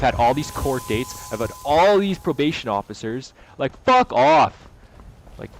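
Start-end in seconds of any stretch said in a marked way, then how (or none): 3.6-4.7 louder, slow, angry dismissal. Real, not acted. Telling the victim off, angry. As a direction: spit each word out slowly.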